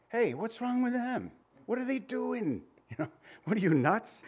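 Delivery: high, mocking bystander; mocking onlooker. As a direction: pitch it up like a jeering onlooker. Crowd mocks three standing men.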